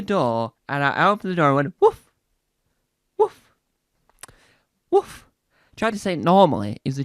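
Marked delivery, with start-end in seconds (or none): 1.8-5.3 "woof" as a short sharp bark. Shown as a demonstration. Went to the door and barked "woof". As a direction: bark each "woof" out separately. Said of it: "Sounds like you're barking".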